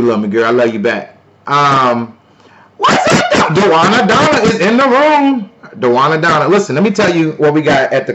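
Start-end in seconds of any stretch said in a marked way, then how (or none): 2.8-5.5 high, loud laughing announcement; hyped shout-out. Real, not acted. Streamer greeting viewer joining the room, hyped shout-out. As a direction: hail the arrival in a high, excited whoop.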